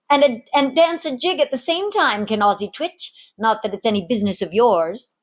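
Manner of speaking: a jaunty tar showing off; cocky seaman. Acted. Seaman brags then snubs.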